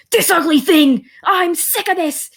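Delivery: high, loud angry rant; frustrated outburst. Acted. Business boy rants about his job at the bar, high angry outburst. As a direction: blow up in fed-up frustration.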